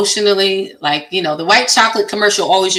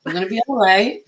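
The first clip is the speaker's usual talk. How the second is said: calm reassuring; 2 semitones higher than usual. Retold or imitated. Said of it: "I'm like".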